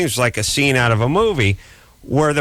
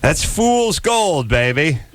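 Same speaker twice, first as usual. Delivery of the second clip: mock prospector; 2 semitones higher, slower than usual. Joking as an old miner.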